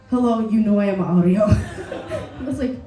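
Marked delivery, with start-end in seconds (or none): 0.1-1.5 low, loud deadpan introduction; mimicked greeting, pitched down; imitating fellow comedian. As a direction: lightly mimic his self-announcement. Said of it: "he was like".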